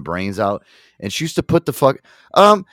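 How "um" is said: high, polite phone voice; imitated ex excusing herself to a client; ex on a client call. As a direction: put on a pitched-up customer-call voice.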